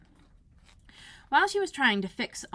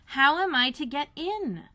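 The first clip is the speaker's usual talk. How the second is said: higher, louder and slow; Alice repeating her question to the footman, insistent; young Alice insisting; 7 semitones higher, 6 dB louder, slower than usual. Acted. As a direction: press the question again.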